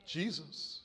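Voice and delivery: very soft, low whisper-like voice. A narrator's reading. To the burglar in the dark, soft and low. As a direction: hush it, low and eerie. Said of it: "the voice that said".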